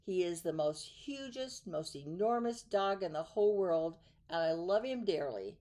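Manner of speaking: lightly voiced proud announcer; proud showman. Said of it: "the circus man would say".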